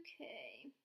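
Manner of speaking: low soft whisper; whispered okay. Real, not acted. Teacher whispers okay before the next word. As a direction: breathe it out quietly.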